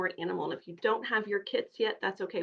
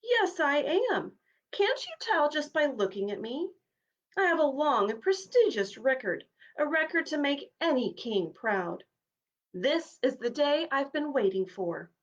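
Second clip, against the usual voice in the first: boastful; 6 semitones higher than usual. Acted. Horse boasting.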